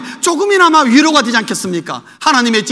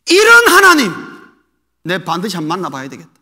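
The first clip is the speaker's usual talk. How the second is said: Elijah's resolve; 3 semitones lower, 4 dB louder than usual. Retold or imitated. Preacher voicing Elijah's vow to meet God, loud then low. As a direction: blurt out Elijah's determination.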